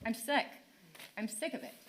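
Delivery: dropping to a weary near-murmur; real exhaustion sinking the voice; worn-out frustration. Real, not acted. Mother worn down by the school district, weary and quiet. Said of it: "I'm frustrated".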